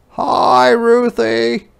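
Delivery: high, loud sing-song mom greeting; cheerful mother. Acted. Mama greets Ruthie home, high and cheery. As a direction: welcome her home brightly. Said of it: "said Mama".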